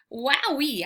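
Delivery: eager yelp of delight; puppy can't contain itself; excited bark. Acted. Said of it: "I bark".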